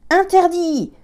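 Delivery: high, loud barked command; shouted order. A narrator's reading. Lieutenant shouting at children at the deck door. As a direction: yell it to stop them cold. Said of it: "hurla le lieutenant".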